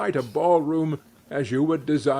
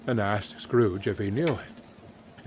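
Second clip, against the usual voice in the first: ordinary delivery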